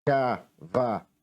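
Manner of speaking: "Cavaleiro" in four separate clapped beats, Ca-va-lei-ro; "Cavaleiro" with a gap after each syllable. Shown as a demonstration. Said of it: "é batendo palmas".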